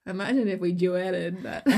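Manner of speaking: laughing through it. Real, not acted. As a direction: giggle as you say it. Laughing repeat.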